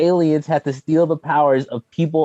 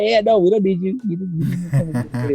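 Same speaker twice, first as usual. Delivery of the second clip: dismissive Monstar; 7 semitones higher than usual. Retold or imitated. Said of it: "Yeah, I was like".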